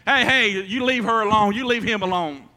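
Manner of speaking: a neighbour yelling at the attacker; mock shout out the window. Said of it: "shout out the window".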